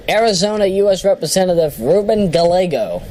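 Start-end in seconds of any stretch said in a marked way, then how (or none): 2.3-3.0 Gallego said guh-LAY-go; guessed pronunciation, guh-LAY-go. Shown as a demonstration. Host trying a surname, Gallego as guh-LAY-go. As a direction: stress LAY in Gallego, hard g at the end. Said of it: "however you pronounce that name".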